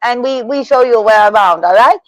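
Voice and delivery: teasing imitation of immigrant English; mock broken English. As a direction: friend mock-teaching how Toronto locals talk. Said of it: "you learn how to talk like this".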